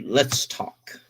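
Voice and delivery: whispered, grave let's talk; serious whisper. Retold or imitated. Wife quietly starting a serious talk with husband, whispered. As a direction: hush it like bad news is coming.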